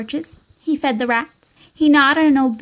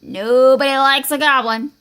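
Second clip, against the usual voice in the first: troll's warning; 4 dB louder than usual. Acted. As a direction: warn him heavily as a troll. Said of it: "said the troll".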